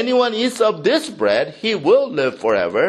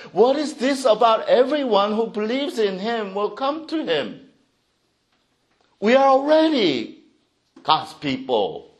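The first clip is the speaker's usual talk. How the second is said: indignant insistence; 4 semitones higher than usual. Acted. Jews insist on their status.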